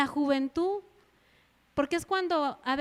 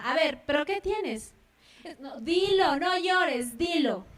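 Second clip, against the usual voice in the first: put-on mother questioning child; slower than usual. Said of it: "y la mamá".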